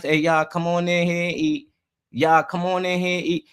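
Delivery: imitating a polite parent's call; mild, friendly summons to the table; nice call to dinner. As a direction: call the kids in to eat, nicely. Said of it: "been told things nice".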